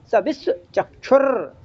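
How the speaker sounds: "सविश्वचक्षुर" slow, gap before चक्षुर; words separated. Shown as a demonstration. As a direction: break after विश्व, roll out the end of "सविश्वचक्षुर". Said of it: "तो अलग-अलग करो उसको". ("सविश्वचक्षुर" में विश्व, चक्षुर अलग-अलग)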